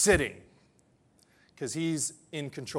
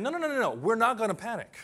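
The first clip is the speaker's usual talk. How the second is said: firm refusal; 6 semitones higher, 5 dB louder, faster than usual. Retold or imitated. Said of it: "David's saying".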